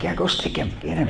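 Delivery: giggling through the go-ahead; laughing. Retold or imitated. Retelling telling the terp to prod someone, laughing. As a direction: laugh as you give permission.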